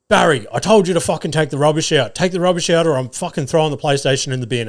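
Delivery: lightly voiced dad telling off his son; mock scolding dad. Mate's dad orders Barry to take the rubbish out, mock scolding. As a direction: imitate an exasperated dad's telling-off.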